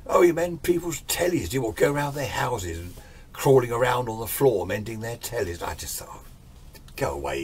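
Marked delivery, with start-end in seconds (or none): 0.1-5.6 higher, scornful bully voice; sneering at a TV repairman; mocking sneer. Bully mocking his job. 6.1-7.4 whispered, under the breath; muttered aside. Retold or imitated. Inner thought, muttered.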